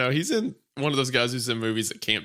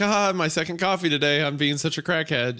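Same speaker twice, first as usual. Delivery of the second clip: put-on white girl voice; 5 semitones higher than usual. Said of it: "is that like the white girl".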